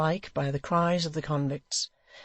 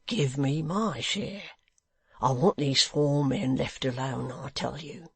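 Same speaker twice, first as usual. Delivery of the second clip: low voice. Acted. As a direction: plead under his breath. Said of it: "in a low voice".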